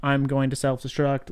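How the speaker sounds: flat droid monotone; robot voice. Retold or imitated. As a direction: deliver it like a cold robot. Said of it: "like, robotic".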